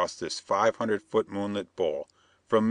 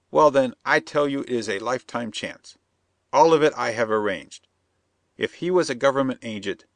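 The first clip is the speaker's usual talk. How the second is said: higher, insistent foreign plotter; scheming Perona; 4 semitones higher than usual. Acted. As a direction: press the bandit, sly and eager.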